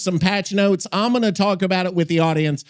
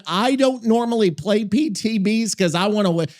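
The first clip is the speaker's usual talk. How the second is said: voice cracking. Real, not acted. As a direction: voice cracks mid-sentence. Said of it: "if you could hear my voice crack just now".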